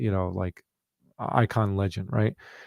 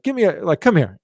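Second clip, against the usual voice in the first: loud, high playful imitation; hearty hug demand; 7 semitones higher, 5 dB louder than usual. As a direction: boom it out like an affectionate uncle. Retelling John Carlos calling for hug.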